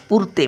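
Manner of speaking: पुरते with a brief u; said quickly. Shown as a demonstration. Teacher showing the short vowel, a quick पुरते. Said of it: "पटकन बोलतो बघा".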